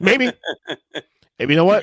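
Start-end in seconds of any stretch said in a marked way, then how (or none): 0.0-0.3 laughing. Real, not acted. Laughing at the soul joke.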